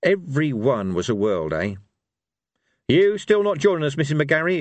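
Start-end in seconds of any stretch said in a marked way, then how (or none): 2.9-4.6 put-on old barbarian voice. Cohen voiced in audiobook.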